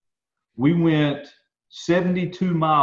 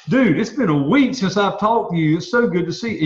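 a little higher, glad to see you; warm excited greeting; 4 semitones higher than usual. Shown as a demonstration. Friend greeting a friend after a week, glad and lively. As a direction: say it like you missed him. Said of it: "you can't hear me say".

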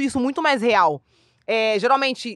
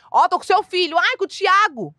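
high, louder play of caller and mother; mock scam call; 7 semitones higher, 4 dB louder, slower than usual. Scammer calling a mother, high mock exchange. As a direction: act out the kidnapper and the mom. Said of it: "Se a pessoa fala assim".

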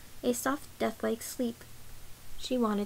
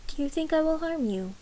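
puzzled question; 5 semitones higher than usual. A narrator's reading. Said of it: "Malini asked".

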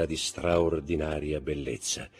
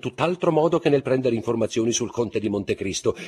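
higher and louder gentlemanly protest; Debray protesting; 7 semitones higher, 9 dB louder than usual. Acted. Debray answers the baroness, raised mock protest. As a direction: defend yourself with lofty indignation.

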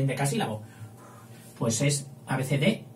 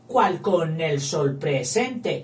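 slowly counting the short line; slow verse counting; slow scansion; slower than usual. Shown as a demonstration. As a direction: read it slowly to count seven.

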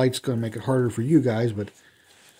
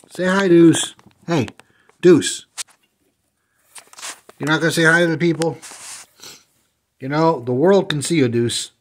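calling the dog; 3 semitones higher, 4 dB louder than usual. Real, not acted.

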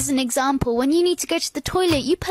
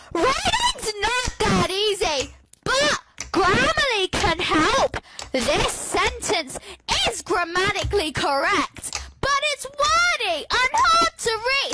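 slow, higher whiny ad read; mock advert voice; 4 semitones higher, slower than usual. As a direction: imitate a cheesy advert.

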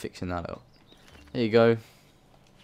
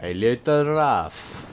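echoing character line; 2 semitones higher, slower than usual. Retold or imitated. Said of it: "It's going to be a little rough".

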